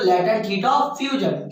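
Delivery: very slow, word by word for students to repeat; slow dictation. Shown as a demonstration. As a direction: spell it out slowly like a teacher dictating. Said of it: "क्या बोलते हैं बोलो?".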